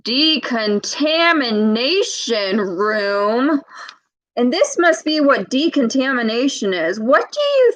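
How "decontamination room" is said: slow big word. Shown as a demonstration. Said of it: "here comes a big word".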